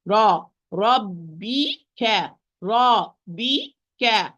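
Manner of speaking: ربك very slow with heavy ra; full-mouth ra. Shown as a demonstration. Teacher drills heavy ra in ربك. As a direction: drag ربك out, ra full and thick. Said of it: "it's a full mouth".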